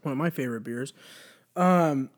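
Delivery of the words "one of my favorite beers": talking between sips of beer; while sipping a drink. Real, not acted. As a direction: speak with a drink at your lips. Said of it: "You can hear me drinking this".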